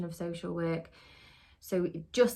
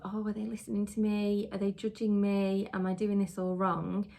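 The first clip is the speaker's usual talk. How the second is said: imitating a worried inner voice, a bit higher; anxious inner voice; 3 semitones higher than usual. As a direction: lightly voice the nervous doubts in your head. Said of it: "that fear in your head of".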